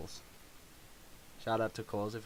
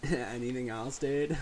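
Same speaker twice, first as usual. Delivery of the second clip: stoner voice; 3 semitones higher, 4 dB louder, slower than usual. Retold or imitated. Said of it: "sound like the biggest stoner".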